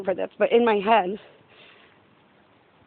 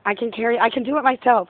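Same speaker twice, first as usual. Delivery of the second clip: put-on stubborn kid; 3 semitones higher, 4 dB louder than usual. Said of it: "your kid is, like".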